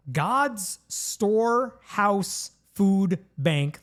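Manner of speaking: slow, even robot voice. Acted. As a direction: say it like a stiff robot. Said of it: "Why did you say that like a robot?".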